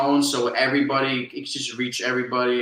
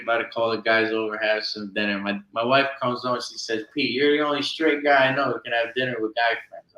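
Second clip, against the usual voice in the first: put-on Jersey accent; 2 semitones lower than usual. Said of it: "Yeah, I'm putting it on".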